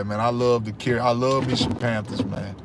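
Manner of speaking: normal talking voice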